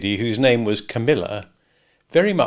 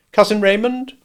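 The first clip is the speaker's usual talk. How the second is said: prim lady; 10 semitones higher, 5 dB louder than usual. A narrator's reading. Lady voiced by narrator.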